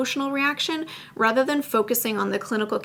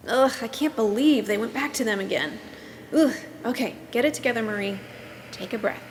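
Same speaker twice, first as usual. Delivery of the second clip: bad acting. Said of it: "please excuse my acting skills".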